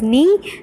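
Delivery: "knee" said alone as the first half of "needed"; isolated syllable. Shown as a demonstration. Teacher giving the first of two syllables, syllable demo. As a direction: sound out "knee" by itself. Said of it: "first one is".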